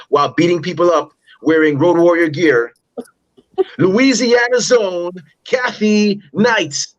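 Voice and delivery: booming ring announcer intro; ringmaster. Acted.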